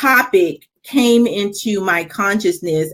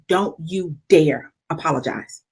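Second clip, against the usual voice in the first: firm quiet command; 5 semitones lower, 5 dB quieter than usual. Retold or imitated. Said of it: "She looked at me. She said".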